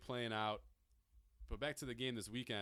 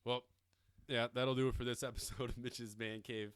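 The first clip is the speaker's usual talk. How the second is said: brighter, louder outro with a laugh; upbeat sign-off; 3 semitones higher, 5 dB louder than usual. Real, not acted. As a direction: restart the sign-off cheerfully. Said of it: "I feel like I'm announcing, like, a death".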